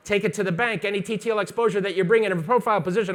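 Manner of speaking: rapid-fire coffee-fuelled explanation; talking very fast. Real, not acted. Over-caffeinated instructor teaching flash exposure, talking very fast. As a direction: rattle it off like you've had too much coffee. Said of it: "I'm talking very fast".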